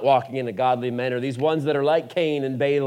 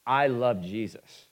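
head voice quote; slower than usual. Retold or imitated. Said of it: "I say with my head".

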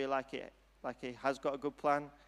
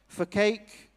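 mole asking; 7 semitones higher, 10 dB louder than usual. A narrator's reading. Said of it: "asked the mole".

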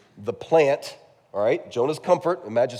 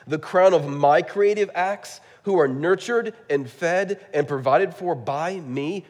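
tender, pleading God; 5 semitones higher, 4 dB louder, slower than usual. Retold or imitated. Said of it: "basically is what God says".

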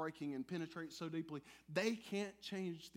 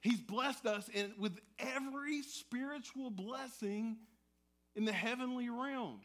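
fired up; 4 semitones higher, slower than usual. Shown as a demonstration. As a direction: proclaim it like great news. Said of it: "Let's hear that again".

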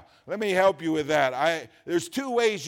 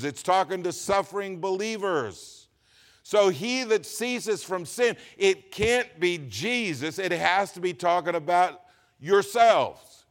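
ordinary talk, nothing marked

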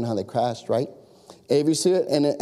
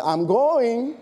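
higher, drawn-out protest with a lift; exasperated preteen; 7 semitones higher than usual. Retold or imitated. Preteen daughter answering her nagging parent, exasperated. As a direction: imitate a preteen putting Dad off. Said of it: "get on my last nerve".

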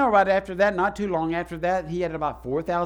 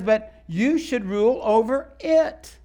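slow, solemn divine command; slow, weighty declaration from God; stern, slow voice of God; 3 semitones higher, slower than usual. Acted. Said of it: "He says".

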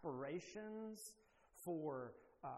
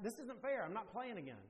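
mock sulk; 4 semitones higher than usual. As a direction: complain like a dad quitting a kids' game. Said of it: "I'm so mad".

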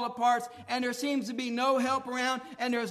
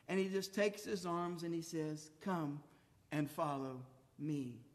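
tender altar call; 6 semitones lower, 8 dB quieter than usual. Acted. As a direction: draw the listeners in gently.

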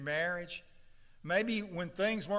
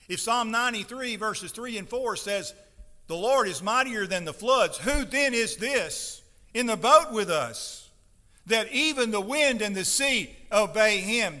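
loud, higher-pitched preacher's crescendo; raised, insistent rhetorical question; building amazed proclamation; 5 semitones higher, 8 dB louder than usual. Acted. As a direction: voice the disciples' awe at full pulpit force. Voicing the awed disciples, building.

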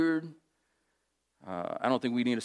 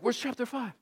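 much higher, lightly voiced bafflement; puzzled reader; 11 semitones higher, 4 dB quieter than usual. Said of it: "You're like".

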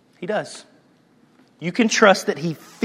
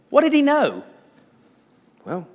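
ordinary talk, nothing marked

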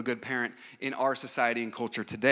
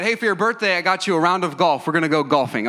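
higher, louder mock-excited offer; eager gift announcement; 4 semitones higher, 6 dB louder than usual. Husband offering his wife golf for her birthday, excited. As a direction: announce the present with hammed-up enthusiasm.

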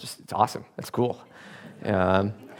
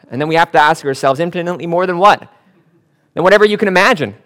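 louder and higher, rising to a fast climax; preaching at full force; 4 semitones higher, 7 dB louder than usual. Acted. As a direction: preach it out, building to a peak.

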